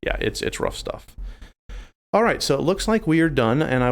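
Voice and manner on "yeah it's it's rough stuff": whispered low. Real, not acted. Low aside on rough topic.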